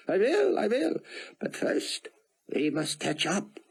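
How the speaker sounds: put-on high, eager old man with an Israeli accent; thick Israeli accent. Rosenzweig welcoming Buck to the yacht club, eager thick Israeli accent. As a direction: fuss over your guest in a thick Israeli accent. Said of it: "in his thick accent".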